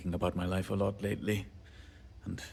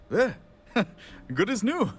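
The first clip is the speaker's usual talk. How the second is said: triumphant cheer; 12 semitones higher, 5 dB louder than usual. Acted. Finally fixes the machine.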